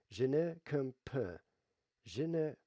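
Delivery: slow English-accented French; foreign accent in French. Shown as a demonstration. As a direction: spell out the French word by word. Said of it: "I'm trying to speak French here".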